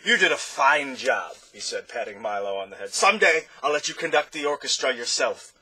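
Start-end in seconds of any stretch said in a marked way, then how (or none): 0.0-1.3 high, loud, grand conductor just waking; a pompous conductor stretching awake; Chroma's voice. Acted. 2.9-5.5 high, loud, grand conductor just waking; a pompous conductor stretching awake; Chroma's voice. Acted.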